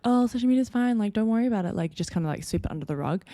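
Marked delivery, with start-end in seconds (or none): 0.0-1.7 mock dismissive. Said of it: "versus be like".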